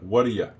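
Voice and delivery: "What do you" squashed into "whaddaya"; shortened form. Shown as a demonstration. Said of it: "let's just shorten it up".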